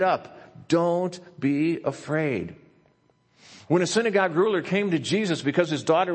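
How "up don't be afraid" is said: slowed, tender promise; gentle reassurance. Acted. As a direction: comfort a frightened listener. Pastor reading God's comfort aloud.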